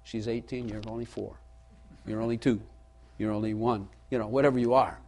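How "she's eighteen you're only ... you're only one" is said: a quiet, lower, softer sister's voice, mocking. Sister teasing a little one about age, low and mocking. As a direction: mimic the sister teasing softly. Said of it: "my sister gets to say".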